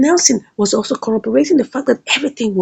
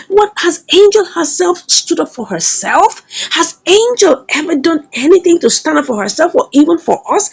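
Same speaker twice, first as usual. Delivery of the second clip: higher-pitched retold protest; raised, indignant storyteller's quote; exasperated quarrel; 3 semitones higher than usual. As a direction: argue back in mild exasperation. Acted quarrel between friends over Angel.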